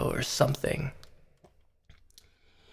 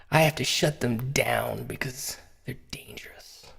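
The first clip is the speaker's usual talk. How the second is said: sinister whisper; 3 semitones lower, 6 dB quieter than usual. Acted. Mock whisper in parody rant.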